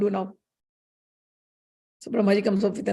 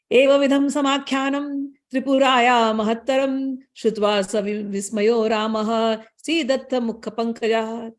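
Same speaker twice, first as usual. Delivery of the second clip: Sanskrit recitation. Acted. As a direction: recite the shloka with reverence. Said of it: "Sanskrit verse recited".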